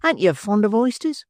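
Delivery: smug lad with a full mouth; tipsy Noah. Acted. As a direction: Noah praising oysters to Charlotte, smug and tipsy.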